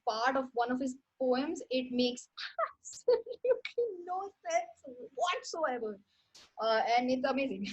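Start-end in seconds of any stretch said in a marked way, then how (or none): 2.4-6.0 higher, slow, laughing through the words; laughing while talking. Real, not acted. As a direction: let amusement break up the sentence. Laughing at a baffling poem.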